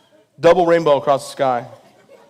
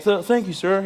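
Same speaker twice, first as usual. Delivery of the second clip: higher-pitched mock timid stammer; imitating shaky fear; 6 semitones higher than usual. Comic retelling of frightened dad thanking the soldier, mock timid. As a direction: stammer out meek, nervous gratitude. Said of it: "He's real shaky".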